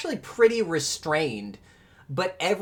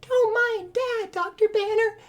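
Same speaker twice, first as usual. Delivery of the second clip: falsetto; 7 dB louder than usual. Acted. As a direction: play the sweet daughter, high. Betty falsetto voice again.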